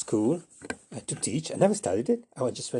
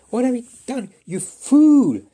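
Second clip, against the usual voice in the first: much higher and louder; angry scolding; 13 semitones higher, 10 dB louder than usual. Acted. Asparagus yelling at Flapperjack, high and loud. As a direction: shout at the fool. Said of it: "telling Flapperjack off".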